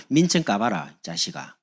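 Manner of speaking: mock Gyeongsang challenge, falling away at the end; Gyeongsang dialect. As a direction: imitate a distrustful Gyeongsang speaker. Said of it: "이게 이제 안 믿는 거거든요". (경상도 사투리로 따지듯)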